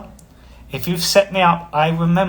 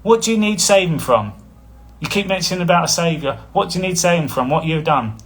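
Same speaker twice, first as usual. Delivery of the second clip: challenging comeback; 3 semitones higher than usual. Retold or imitated. Throwing a retort back at a commenter, challenging. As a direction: fire the question back at them. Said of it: "And then I throw it at them".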